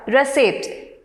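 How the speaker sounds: "receipt" with the weight on CEIPT; stress on second syllable. Shown as a demonstration. Teacher giving an example word, "receipt" stressed on CEIPT. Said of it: "the stress is on the second syllable".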